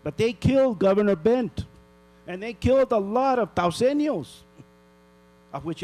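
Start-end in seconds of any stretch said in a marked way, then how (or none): 0.0-4.3 louder, higher outrage; angry. Real, not acted. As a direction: press it home. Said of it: "I'm really pissed off".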